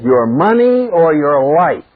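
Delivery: slow, deliberate robber's threat; stick-up man. Acted. Stick-up man robbing Jack Benny, slow demand. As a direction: draw out the demand like a radio hold-up. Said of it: "the stick-up man says".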